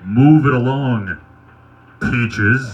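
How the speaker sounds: slow drill sergeant in a smooth baritone. Retold or imitated. Drill sergeant behind the blushing recruit, smooth baritone. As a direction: imitate a sergeant's smooth, unhurried order. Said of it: "came ringing out in a smooth baritone".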